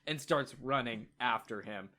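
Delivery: ordinary delivery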